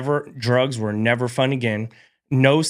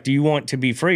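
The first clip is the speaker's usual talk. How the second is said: insistent question, only mildly raised; first, milder urging; 2 semitones higher than usual. Retold or imitated. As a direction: press the question, still fairly controlled. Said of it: "kept getting louder and louder".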